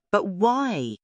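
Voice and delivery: a hint of a bound snake gasping in disbelief; trapped snake asking why in disbelief; hissing snake disbelief. A narrator's reading. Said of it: "Slick hissed".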